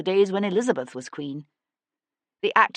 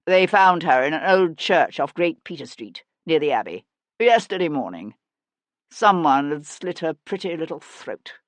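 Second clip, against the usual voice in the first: cold, no sorrow; 5 dB louder than usual. Acted. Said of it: "There was no sorrow in the statement".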